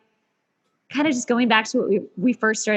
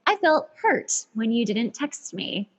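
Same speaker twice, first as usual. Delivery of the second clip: therapist-style statement; slower than usual. Retold or imitated. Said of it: "like a therapist would tell you to do".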